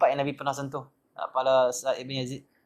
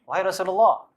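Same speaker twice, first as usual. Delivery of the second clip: a companion calling out to the Prophet, raised and louder; pleading companion; 5 semitones higher, 7 dB louder than usual. Acted. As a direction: call out eagerly to the Messenger.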